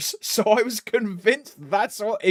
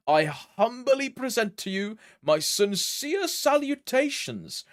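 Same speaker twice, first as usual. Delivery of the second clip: posh British; 3 semitones higher than usual. Acted. Reading a chat greeting aloud in a posh British accent. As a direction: read it as a stiff posh British letter.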